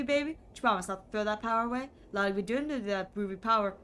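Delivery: lightly voiced hip seventies charmer; a hint of a laid-back groovy cat; groovy smooth talker. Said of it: "Charles doesn't call me baby".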